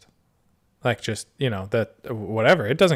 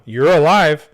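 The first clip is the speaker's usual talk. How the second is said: loud, high mock outcry at the bear; yelling at the bear in pretend agony; 5 semitones higher, 9 dB louder than usual. Victim yelling at the bear after the attack, mock outcry.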